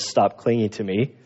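gentle and low, as loving as possible. Retold or imitated. Jesus gently telling Mary to let go, loving and low. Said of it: "as loving as possible".

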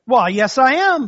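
proud quick yes; eager answer. Retold or imitated. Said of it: "the balloonist said".

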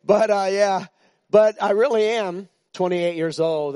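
playful insistence. Pretend. Insisting on joke age.

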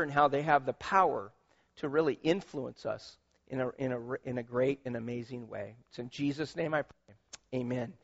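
hushed intercessory prayer. Acted. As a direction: pray gently over the women standing. Pastor prays over mothers.

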